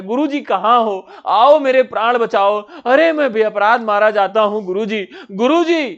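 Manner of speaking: a disciple calling desperately for his teacher; acted call for rescue, not a full shout; crying out for help. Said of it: "Govardhan दास चिल्लाता है".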